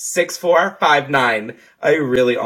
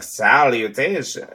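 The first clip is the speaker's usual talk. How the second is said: mock greeting; slower than usual. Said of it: "and you're like".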